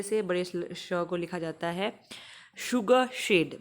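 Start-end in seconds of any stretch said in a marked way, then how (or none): 2.6-3.6 शुगर शेड with a clear sh; teacher models शुगर शेड; modelled sh words. Shown as a demonstration. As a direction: say शुगर शेड slowly, sh stressed. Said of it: "बोलो उसको".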